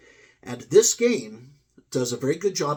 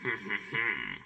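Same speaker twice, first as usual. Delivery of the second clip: low devil chuckle; acted low villain laugh; devil's chuckle; 3 semitones lower, 5 dB quieter than usual. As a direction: chuckle like a devil behind the counter. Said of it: "devil retail clerk who works at the counter".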